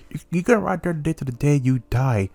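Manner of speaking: mock meme rant voice; lightly voiced troll tirade; light take on a meme streamer's threat; Low Tier God rant. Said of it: "I'm on that low tier god".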